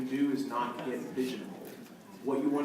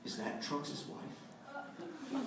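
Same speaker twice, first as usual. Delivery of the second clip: lightly voiced eager fan girl, higher and slow; 12 semitones higher, 11 dB quieter, much slower than usual. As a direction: ask it in a high, slow, starstruck girl voice. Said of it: "and she says".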